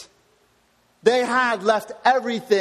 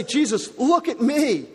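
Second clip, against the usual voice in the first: voicing Peter; 3 semitones higher than usual. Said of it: "He's trying to say".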